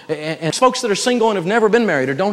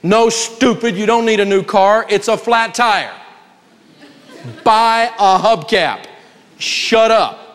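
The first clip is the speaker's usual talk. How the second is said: blunt accountability partner; 4 semitones higher, slower than usual. Retold or imitated. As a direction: tell them off for their own good. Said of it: "willing to hurt your feelings for your own good".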